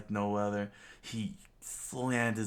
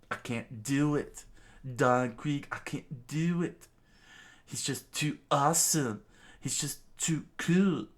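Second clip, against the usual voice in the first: higher, louder, breaking with emotion; tearful pleading; 7 semitones higher, 5 dB louder than usual. Acted. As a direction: plead through tears. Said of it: "Gin's eyes began to tear up".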